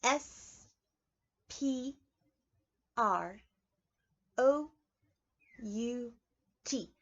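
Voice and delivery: each letter slow and separate; spelled out letter by letter. Shown as a demonstration. Preschool teacher spelling a word aloud, slow. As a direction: spell it out for the kids. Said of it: "We're gonna go over it again".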